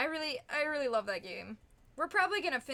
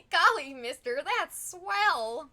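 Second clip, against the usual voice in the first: put-on loud, eager old-timey kid; wholesome 1950s kid; 4 semitones higher, 5 dB louder, slower than usual. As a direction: gush like a golly-gee kid. Old-timey exclamation after success.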